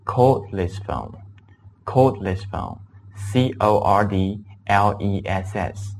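slow spelled-out demo. Shown as a demonstration. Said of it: "那么用的是cordless phone".

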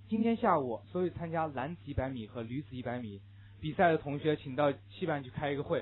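imitated notice with "男子" as lan-zi; "女子" said as lü-zi, n turned to l; Chongqing classmate's notice, l for n in "男子"; n/l-confused announcement. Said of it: "发了这样一个通知".

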